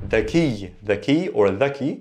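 "the key" as Arabic dhaki, opening with voiced th; original pronunciation. Shown as a demonstration. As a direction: say "the key" as one word, dha-KI. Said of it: "it's dhaki originally".

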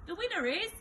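high, strained squeak. A narrator's reading. Teacher announcing Henry won, high squeak. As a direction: force out the result in a squeak. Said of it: "squeaked Miss Battleaxe".

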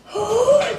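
big, loud startled gasp; sharp gasp of mock horror; shocked gasp. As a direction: gasp as if spooked. Startled as pencils seem to move.

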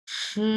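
সে held level and flat from start to end; first tone. Shown as a demonstration. Teacher shows the first tone to students, level and flat. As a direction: keep সে steady and flat. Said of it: "flat tone, এক number tone".

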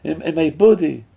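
high, begging cry; pleading stomach. Pretend. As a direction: cry out high, refusing the food. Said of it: "is screaming".

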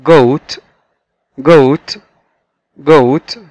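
goat said clearly with a hard g; teacher models goat; model pronunciation. Shown as a demonstration. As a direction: goat carefully enunciated. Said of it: "مرة كمان".

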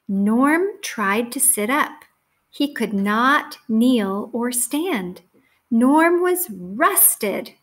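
slow, deliberate storybook reading with weighted words; story read to children. A narrator's reading. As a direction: read it slowly to young children, landing each key word.

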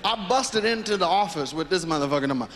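ordinary talk, nothing marked

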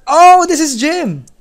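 a high, slow put-on voice for the game character. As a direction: voice the character, lifted and drawn out. Reading NPC dialogue in a voice.

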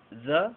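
"the" clipped short as a schwa. Shown as a demonstration. Teacher showing the very short reduced article. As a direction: make "the" tiny and quick. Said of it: "muy cortito".

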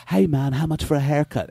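put-on British accent. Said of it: "take a British accent and go".

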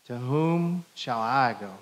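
slow, leaning on I; a slow, personal "To whom shall I go?"; personal I version. Shown as a demonstration. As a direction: make it personal, slowly, with I. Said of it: "change the we to I".

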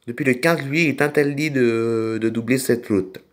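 put-on funny accent with R's sliding into L's; odd accent. Tractor driver apologising to madame, in an odd accent. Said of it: "j'ai un drôle d'accent".

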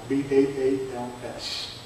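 slow letter-by-letter spelling of "B A A L S"; spelled out letter by letter. Shown as a demonstration. Teacher spelling the name for the class, slow and deliberate. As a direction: spell B A A L S slowly, one letter at a time. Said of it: "teacher spells the name out".

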